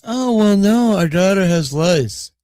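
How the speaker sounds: high-pitched, offhand mimicked parent; imitated mother breezily blurting it out; blatant admission. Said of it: "blatantly right out, she just goes".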